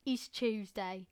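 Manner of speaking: a goofy little bit, lightly voiced; silly Tuesday voice. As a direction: put on a playful character voice. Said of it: "especially 'cause I can go".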